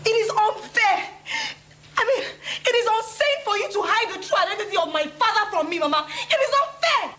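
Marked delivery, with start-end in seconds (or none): 0.1-3.8 protest. Acted. Daughter protests to mother. 6.1-7.1 slow, much higher outcry; a daughter's slow, high outcry at her mother; upset protest. Acted. Daughter protests again, louder.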